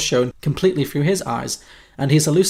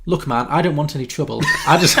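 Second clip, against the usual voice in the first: overpronounced Daniel Kaluuya. Acted. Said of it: "overpronouncing everything with him".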